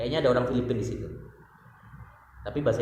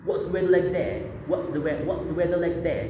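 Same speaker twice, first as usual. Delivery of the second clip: British-style English, higher, with a restart, the retake slower; careful British accent, slowing on the repeat; British accent imitation; 6 semitones higher than usual. Repeating the host's greeting to a Melbourne guest, British accent. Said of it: "Dia tanya".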